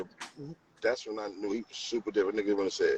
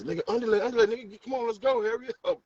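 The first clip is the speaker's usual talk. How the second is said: higher, louder, hurrying call; urging shout; 11 semitones higher, 5 dB louder, faster than usual. Retold or imitated. Teammate urging a runner round the bases, higher and louder. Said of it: "he used to say".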